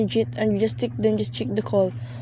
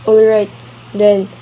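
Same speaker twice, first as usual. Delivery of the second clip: exasperated outburst; 5 dB louder than usual. Acted. Annoyed wife fed up with bureaucracy.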